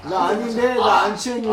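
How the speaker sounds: tipsy denial. Real, not acted. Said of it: "아닌데가 먼저 나와". (취해서 우기는 목소리)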